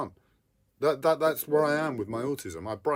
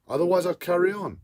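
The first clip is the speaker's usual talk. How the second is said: higher and louder, whining in real distress; whiny voice; 6 semitones higher, 6 dB louder than usual. Real, not acted. Man overwhelmed by his autism, whining higher and louder. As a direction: plead through the overwhelm, voice pitched up. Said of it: "my whiny fucking voice".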